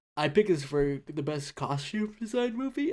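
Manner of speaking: words stretched out while yawning. Presenting movie picks, yawning while talking. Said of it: "I don't know why I'm yawning".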